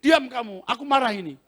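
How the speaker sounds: preacher angrily silencing a demon; angry command. Retold or imitated. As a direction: snap at the spirit to shut up. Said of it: "Marah saya".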